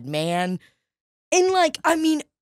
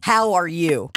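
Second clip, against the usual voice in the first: lightly slurred drunk imitation; mock drunken greeting; 3 semitones lower, slower than usual. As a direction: mimic a slurred pickup line. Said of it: "a slurred".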